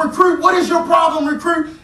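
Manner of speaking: barking drill-instructor shout, high and loud; high, loud mock drill-sergeant bellow; commander shout. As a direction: yell it like a furious company commander. Drill commander yelling at recruit.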